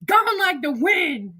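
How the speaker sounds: slow, high sing-song gone like the wind; high drawn-out taunt; mock farewell. Real, not acted. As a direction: draw it out teasing. Repeats taunt.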